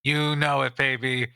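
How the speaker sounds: a hint of a sly, charming hustler; smooth-talking smuggler. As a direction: sweet-talk an old friend for a favor. Plays NPC Broxton.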